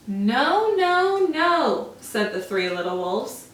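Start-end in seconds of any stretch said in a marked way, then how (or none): 0.1-1.9 louder, high no no no; loud refusal. Acted. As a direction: shout the refusal. Wolves refuse the pig.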